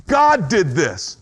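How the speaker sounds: a touch of acted anger, slowing at the end. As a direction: spit out the blame. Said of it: "the second stage is anger".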